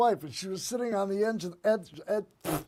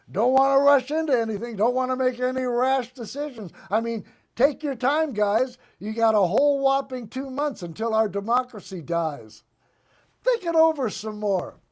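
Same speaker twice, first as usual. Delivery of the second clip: dry sarcasm, a bit faster and pushier; mockingly urging them to take their time; sarcastic mock patience; 2 semitones higher than usual. Real, not acted. Sarcastic mock advice to Democrats.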